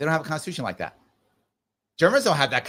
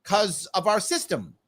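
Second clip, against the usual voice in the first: high, put-upon sigh then a reluctant concession; a bored empire clerk conceding rights; grudging British official; 6 semitones higher than usual. Retold or imitated. Mock British officials reply to Gandhi with exasperated, grudging concession. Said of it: "And they're like".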